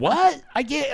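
high, loud mock yell; mocking a yelling woman with fake deafness; mock shouting over noise. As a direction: pretend a band is drowning her out. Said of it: "You go".

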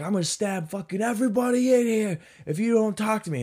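high, mock unhinged yelling; imitated screamed threat. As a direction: threaten the whole room like a raving man. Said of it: "he's screaming just crazy shit".

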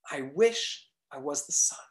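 breathy whisper of a secret wish. Acted. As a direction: whisper it like a private longing.

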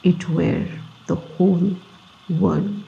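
measured, deliberate reading in short phrases; reflective reading aloud. Acted. Reading a book passage before a meditation, deliberate reflective reading.

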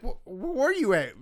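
a hint of a flustered wife; high mock panicky question. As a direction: imitate her panicking. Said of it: "You're like".

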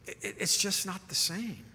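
mild wistful sigh. Retold or imitated. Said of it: "And he goes".

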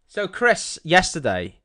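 put-on Scottish accent, softly delivered; lightly voiced mock-Scottish storyteller; Sean Connery. Host starting a story about his friend, mock-Scottish accent. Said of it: "this is the last one I'll do it".

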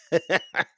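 high, bursting laugh in reply; mocking laugh. Boyfriend to his old lady asking to come, mocking laugh. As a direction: laugh the request away. Answers her request to come along.

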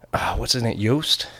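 whispered aside while recalling a name; whispering. Real, not acted. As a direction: drop to a whisper, searching for the name.

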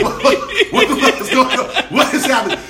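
high, loud stammering panic, half laughing; panicked. Retold or imitated. Man reliving his shock in bed, panicking. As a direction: freak out, tripping over the first word. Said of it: "I'm panicking, like".

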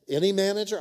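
high startled disbelief; incredulous question. Retold or imitated. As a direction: act out the baffled operator. Operator incredulous at request.

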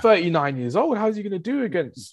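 disbelieving. Retold or imitated. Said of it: "I was like".

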